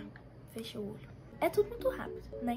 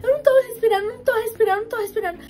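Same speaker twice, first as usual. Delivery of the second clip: mock panic, loud then fading; imitating panicked self, can't breathe; panicked gasping plea; 5 semitones higher, 8 dB louder, faster than usual. Retelling her panic, not breathing. (imitando o pânico, cada vez mais fraco)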